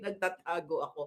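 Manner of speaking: mild hushed reply to the fan. Retold or imitated. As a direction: drop it low like you're hiding. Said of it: "Sabi ko daw ganun".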